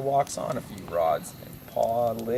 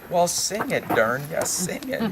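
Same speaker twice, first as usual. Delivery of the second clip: mock-angry retort, rising higher; mildly riled old-timer, pitch climbing; mad Pa; 4 semitones higher than usual. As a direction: snap back in hammed-up irritation. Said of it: "Pa gets madder than all get out".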